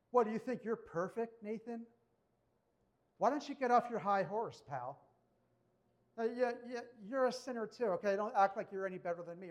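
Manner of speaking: hammed-up touchy guy snapping back; mock defensive rebuke. David imagined telling off Nathan, mock indignant snapping.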